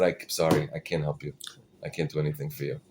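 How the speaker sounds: low, soft, regretful refusal; subdued refusal. Retold or imitated. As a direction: turn them away quietly, voice dropped. Rebbe turns away a petitioner.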